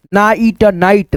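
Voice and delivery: ना ईट नाइट broken into parts, then blended; slow teacher's breakdown; slow sounding out. Shown as a demonstration. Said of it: "sounding out नाइट slowly".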